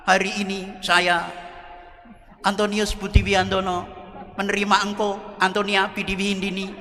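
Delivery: a hint of a firm groom reciting the wedding vow; lightly voiced, steady bridegroom taking his vow; steady groom's vow. Groom vowing to his bride at the wedding, lightly steady. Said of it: "Yang laki tegar".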